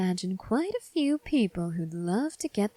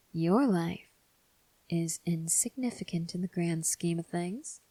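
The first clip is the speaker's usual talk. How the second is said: cold whispered threat; menacing whisper; 3 dB quieter than usual. Acted. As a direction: hiss the threat quietly. Whispered contempt.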